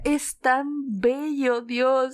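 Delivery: a hint of swooning fan; awestruck. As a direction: linger on it, starstruck. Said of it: "lo miraba y decía".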